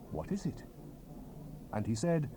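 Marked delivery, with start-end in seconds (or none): 0.1-0.6 hushed, breathless whisper; awed whisper. Acted. The prophet asks the angel, whispered in awe. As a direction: ask it under your breath in awe.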